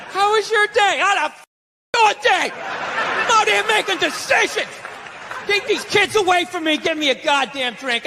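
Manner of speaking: ranting husband. Retold or imitated. Acting the dad ranting home.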